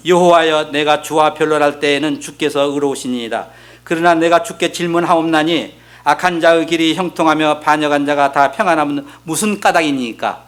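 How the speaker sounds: even, measured reading of a Bible verse; scripture reading. Acted. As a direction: read the verse out formally on a level tone. Reads scripture aloud. (성경 봉독하듯 고르게 읽는 말투)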